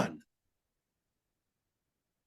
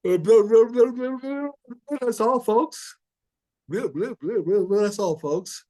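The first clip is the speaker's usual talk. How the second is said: lightly voiced Porky Pig stutter, blah blah; a light hint of the cartoon pig signing off; Porky Pig impression. Host mocks the crying woman as Porky Pig. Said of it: "it reminds me of Porky Pig".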